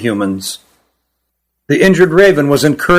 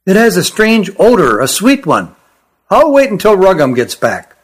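higher small Kirin voice; young creature voice; 5 semitones higher than usual. Acted. Young Kirin sniffs the pea.

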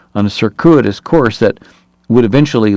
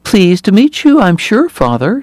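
put-on Ulster accent; 11 semitones higher than usual. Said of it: "Ulster still audible in her voice".

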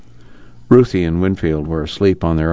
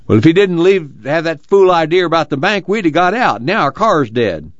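angry; 11 semitones higher than usual. A narrator's reading. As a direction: spit the blame out, fuming. Angry man blames Pa to Al.

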